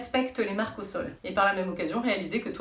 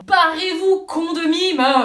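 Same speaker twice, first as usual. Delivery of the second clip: loud angry shout, higher; angry yell; 7 semitones higher, 11 dB louder, much slower than usual. Acted. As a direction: bark at them to get away, louder. Shooing away crowd of people.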